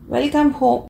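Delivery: a lightly voiced, fond welcome; affectionately. A narrator's reading. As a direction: greet her home with gentle affection. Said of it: "ఆప్యాయంగా అన్నాడు".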